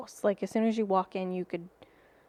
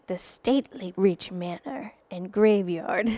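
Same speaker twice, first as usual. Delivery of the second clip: lightly creepy story reading, breaking into a laugh; a touch of haunted-tale narration; creepy storyteller; 4 dB louder than usual. Acted. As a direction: read it like a spooky storyteller, a little tongue-in-cheek. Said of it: "read it in, like, a creepy voice".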